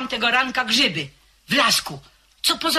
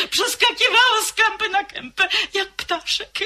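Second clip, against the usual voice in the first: lilting excitement; 11 semitones higher than usual. Acted. Servant recalling the lady fondly.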